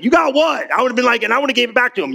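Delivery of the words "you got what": high, disbelieving "You got what?"; incredulous. Acted. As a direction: throw the question back in disbelief. Incredulous reply to Jesus.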